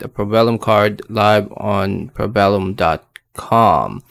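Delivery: talking with half the face numb; numb mouth. Real, not acted. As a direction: speak like the dentist's anesthetic hasn't worn off. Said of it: "if you're wondering why I sound like this".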